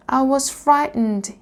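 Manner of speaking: high, small confession; frightened. A narrator's reading. Shivering dragonling explains himself to Luna, frightened. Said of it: "Firion shivered uncontrollably".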